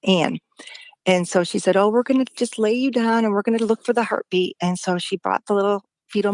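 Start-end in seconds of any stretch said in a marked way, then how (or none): 1.8-4.5 higher, gentle nurse voice, lightly voiced; lightly voiced calming nurse; soothing nurse. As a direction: reassure a scared patient, a touch higher. Nurse soothing the frightened mother.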